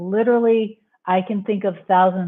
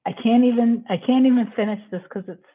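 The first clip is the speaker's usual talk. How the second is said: real tearful overwhelm, unable to finish; choked up; 5 semitones higher, faster than usual. Real, not acted. Host sharing a life purpose with viewers, choked up. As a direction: overcome by emotion mid-thought. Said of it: "I'm getting teary saying this".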